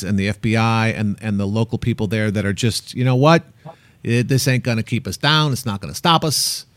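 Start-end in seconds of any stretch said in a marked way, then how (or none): 2.9-6.7 put-on faint Boston accent; lightly voiced Boston accent. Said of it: "that's your Boston accent?".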